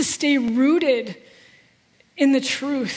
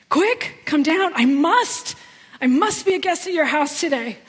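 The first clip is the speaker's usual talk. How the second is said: urgent; 2 semitones higher than usual. Acted. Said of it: "There's an urgency in the words that Jesus spoke".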